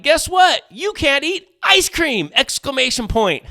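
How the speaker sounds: high, slow, absurdly thrilled announcement; mock excited doctor. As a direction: deliver bad news like a big prize. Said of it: "like a doctor being like".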